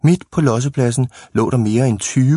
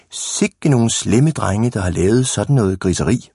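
feigned disapproval. Pretend. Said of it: "vi lader bare, som om det ikke er os".

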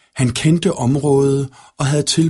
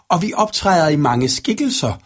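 higher, menacing villain voice; sinister dark-maker; 7 semitones higher than usual. A narrator's reading. Third dark figure taunts Anemone in a nightmare, sinister. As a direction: gloat as a nightmare creature. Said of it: "lå den tredje".

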